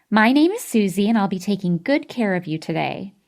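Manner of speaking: peppy nurse. Acted. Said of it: "her loud, peppy voice".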